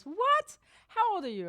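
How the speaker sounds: loud, high shocked question; retold disbelief. Nurse to stitches first-timer, astonished.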